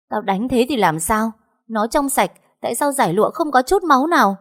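high-pitched quarrelling retort; defiant anger. A narrator's reading. Mother defends hitting daughter-in-law, defiant and angry. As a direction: argue back hotly, pitch climbing.

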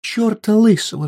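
high, loud furious retort; shouting wife. A narrator's reading. Wife refusing the fifty pengő, loud angry cry. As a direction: shout it down flat. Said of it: "вскричала она".

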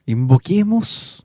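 slow, solemn mock summoning; mock invocation. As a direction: intone it like a ritual, drawn out. Mock invocation to end a dispute.

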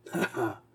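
soft, dry narrated snicker; weak mocking "ha, ha" of a dying man; sneering laugh. A narrator's reading. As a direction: snicker quietly at him. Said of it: "ricana le moribond".

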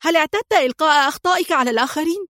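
high, fast furious comeback; angry retort. A narrator's reading. Sonia to Antoine blaming her, a high fast angry retort. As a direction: snap back in anger. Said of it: "صاحت في غضب".

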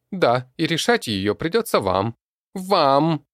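high, loud creaky goblin voice; screechy goblin ranting. A narrator's reading. Goblin boss snarls at the humans, high and loud. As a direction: goblin boss barking orders.

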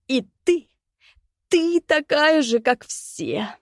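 high rasping cry breaking into a squeal; hoarse strained shriek. Acted. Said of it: "прохрипел он на пределе голосовых связок, срываясь на визг". (хриплый крик, срывающийся на визг)

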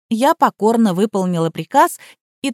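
ordinary delivery

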